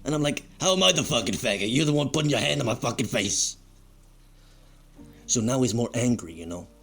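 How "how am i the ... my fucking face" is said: high-pitched, incredulous comeback; acted-out outraged protest; indignant retort. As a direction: throw the accusation back, voice raised in pitch.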